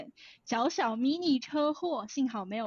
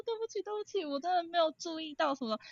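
higher, softer, almost crying sorry; near-tears apology; 5 semitones higher, 3 dB quieter than usual. Retold or imitated. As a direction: retell the apology with a catch of tears, pitched up. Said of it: "我差点哭出来". (带着哭腔的慌张道歉，声音抬高又轻)

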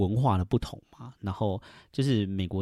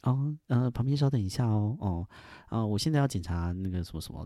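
polite. Retold or imitated. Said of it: "就是会很礼貌这样子".

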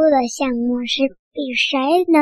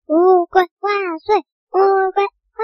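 cheering; 5 semitones higher, slower than usual. Acted. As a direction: cheer the winner on. Crowd cheers winner.

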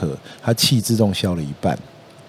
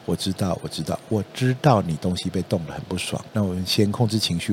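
calm reassurance; 2 semitones lower than usual. Shown as a demonstration. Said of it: "但实际上你跟他说".

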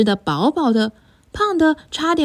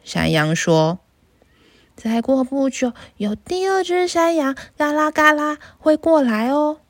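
a small goat begging not to be eaten; little goat; 4 semitones higher than usual. Acted. Little goat pleads with troll.

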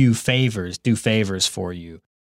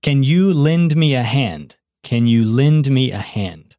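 model request; 3 semitones higher than usual. Shown as a demonstration. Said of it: "这样你可以问".

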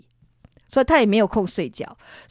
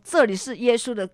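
loud, higher commanding rebuke; mother rebuking a ghost in Jesus's name; 6 semitones higher, 6 dB louder than usual. Retold or imitated. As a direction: cast it out with full authority. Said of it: "一直骂".

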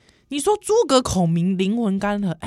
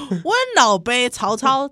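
Taiwanese Hokkien; 4 semitones higher than usual. Pretend. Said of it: "我们先这样试试看".

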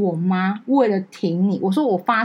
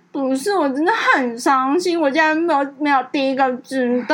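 mock sulking; 5 semitones higher than usual. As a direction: pout it out, teasing. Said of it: "她说".

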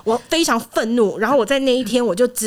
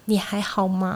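softer, tentative asking; careful question; 2 semitones lower, 6 dB quieter, slower than usual. Retold or imitated. Coworker cautiously asking the upset friend, soft and tentative. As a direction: ask gently, testing the waters. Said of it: "小心翼翼地问我说".

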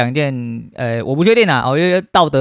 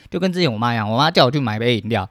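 ordinary talk

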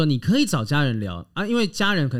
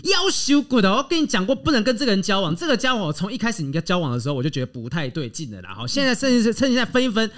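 high, mock-angry mom scolding; a hint of an outraged Taiwanese mother; 5 semitones higher than usual. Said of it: "然后他说，".

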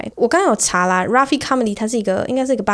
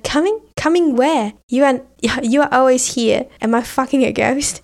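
baffled outrage; 4 semitones higher than usual. Retold or imitated. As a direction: play the confused foreigner, half-shouting. He answers her, baffled, in the joke. (高声又困惑地质问)

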